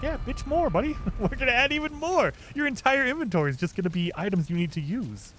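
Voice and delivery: high, mocking gloat; high-pitched taunting gloat; gloating dev voice.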